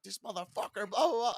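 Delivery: half-acted angry rant; mock freak-out. Retelling a bad work week to friends, mock angry rant. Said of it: "freaking out".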